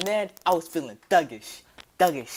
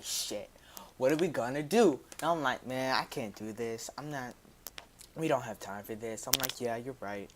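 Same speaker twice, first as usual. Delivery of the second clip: nervous hushed talk; 3 semitones lower, 6 dB quieter than usual. Retold or imitated. Nervous whispered plotting outside store.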